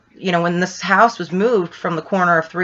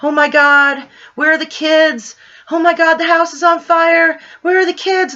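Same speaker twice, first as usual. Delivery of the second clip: mock panicked cries, much higher and a bit louder; retold panicked screaming; 10 semitones higher, 4 dB louder than usual. Parents outside the burning house calling for their kids, imitating panicked high cries. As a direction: act out frantic parents in high shrill panic. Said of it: "they're screaming".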